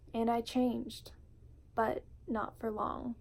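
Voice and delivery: measured, heartfelt poem reading with weighted pauses; spoken word poetry. Acted. Vlogger reading her poem Home to viewers, spoken word delivery. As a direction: read it like a confession, line by line.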